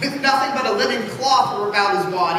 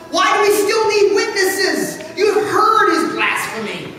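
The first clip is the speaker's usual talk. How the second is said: mocking question through a laugh; scornful laugh; 7 semitones higher, 4 dB louder than usual. High priest scoffing at Jesus before the council, laughing. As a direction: laugh him down.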